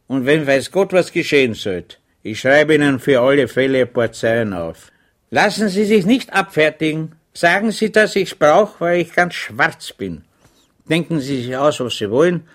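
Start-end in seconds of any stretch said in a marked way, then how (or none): 5.3-12.5 urgent plea. Acted. Chaplain urgently pleading for money.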